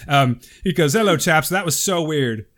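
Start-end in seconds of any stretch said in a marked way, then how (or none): 0.9-1.5 hammed-up, louder British greeting; bad British accent. Reading a UK listener's letter, bad British accent. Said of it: "this really bad British accent". 1.5-2.5 mock British, badly faked; bad British accent. Reading a UK listener's letter, bad British accent. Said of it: "this really bad British accent".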